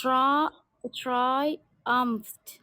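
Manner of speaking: "triumphed" split after tri, slowly; syllable-by-syllable repetition. Shown as a demonstration. Student copying the teacher, "triumphed" in careful separate syllables. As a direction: sound out "triumphed" as try, then umft. Student repeats the sounded-out word.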